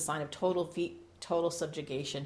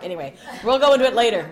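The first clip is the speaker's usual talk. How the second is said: laughing; 5 semitones higher, 11 dB louder, faster than usual. Real, not acted. Laughing, fast aside.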